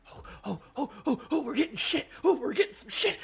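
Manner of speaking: rising, laughing squeals; excited laughing. Real, not acted. Reader laughing in delight at the Nika reveal.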